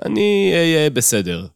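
stammering. A narrator's reading. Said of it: "גמגמתי".

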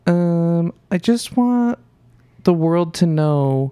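high-pitched, slow imitation of a friend; Sid. Host imitates absent co-host confessing to the world, overly high voice. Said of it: "She doesn't have that high of a voice".

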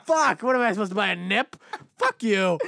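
loud, indignant outburst; heated venting; angry rant. Real, not acted. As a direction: snap back at a stingy customer. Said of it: "Now I'm getting fucking angry".

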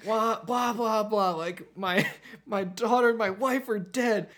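mocking, fed-up imitation, high and loud; Rocket. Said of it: "Rocket has had it with Drax".

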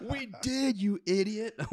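high, loud mocking jab; mocking boss voice. Executives mocking in retelling.

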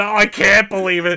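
high, loud disbelief; amazed disbelief. Retold or imitated. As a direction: gush like you just found treasure. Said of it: "Holy shit".

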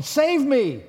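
panicked cry for help. Retold or imitated. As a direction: shout for rescue while sinking. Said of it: "He's going".

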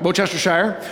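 Worcestershire as WOO-ster-sheer, first syllable stressed; careful Worcestershire; correct pronunciation. Shown as a demonstration. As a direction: say Worcestershire with the R silent. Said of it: "The accent is on the first syllable".

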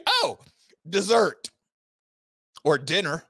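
a lightly voiced hungry lion sizing up prey. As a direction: savour dessert or dinner like a lazy predator. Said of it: "Wild lion gonna look at you and say".

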